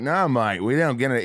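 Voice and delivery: imitated New Zealand accent; casual refusal in a New Zealand accent. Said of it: "doing his, his New Zealand accent".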